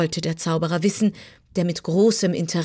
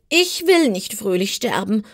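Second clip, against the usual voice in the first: higher-voiced, indignant kitten; mildly put-on kitten protest; 4 semitones higher, 4 dB louder than usual. A narrator's reading. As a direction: object firmly, as a little cat. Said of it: "protestierte das Kätzchen".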